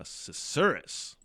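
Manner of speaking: Susurrus drawn out very slowly; slow pronunciation. Shown as a demonstration. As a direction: savor the word Susurrus. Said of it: "practising the word".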